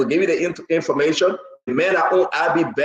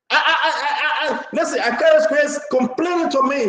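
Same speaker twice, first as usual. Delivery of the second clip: laughing; 6 semitones higher than usual. Real, not acted. Host laughing mid-story.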